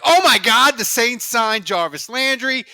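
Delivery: excited. Retold or imitated. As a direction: blurt it out like big news just broke. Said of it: "And I'm like".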